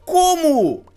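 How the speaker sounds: loud, high disbelieving shouts; shocked outcry. Real, not acted. Gamer shouting at the boss in loud shocked disbelief. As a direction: yell in disbelief at the screen. Sudden unfair death in game.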